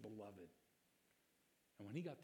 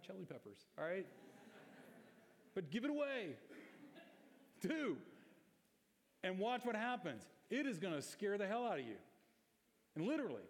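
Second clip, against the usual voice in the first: rally the church to give it away; full-force preaching; 4 semitones higher than usual. Acted.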